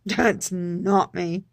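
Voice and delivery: slow, with a laugh. Real, not acted. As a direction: chuckle through it, drawn out slowly. Laughing at own outburst.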